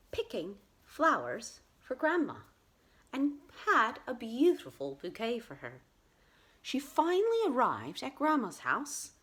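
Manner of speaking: put-on lively children's story narration; storytelling. A narrator's reading. Storyteller telling how Red Riding Hood came to Grandma's, animated narration. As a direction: tell it with swooping pitch and pauses.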